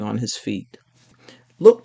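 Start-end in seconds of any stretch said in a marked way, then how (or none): 1.6-1.8 sharp call, louder; yelled. A narrator's reading. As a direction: call out to the others. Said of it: "P J yelled".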